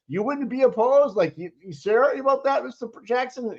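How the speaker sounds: a lightly imitated sarcastic lawyer. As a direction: play it like you can't believe they asked. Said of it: "she said it sarcastically".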